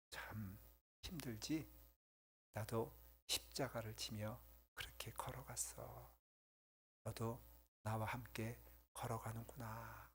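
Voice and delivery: very soft, slow, hushed comfort; the Lord speaking softly to him, slow and hushed; tender consolation. Retold or imitated. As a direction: comfort a weeping servant gently.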